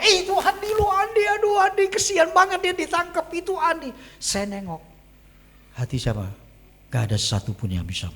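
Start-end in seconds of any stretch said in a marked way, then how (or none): 0.0-3.9 very high-pitched pitying clamour; friends' outcry. Retold or imitated. Friends at the back see Andi arrested, pitying outcry. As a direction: exclaim high, like friends spotting him caught. Friends behind cry out in pity.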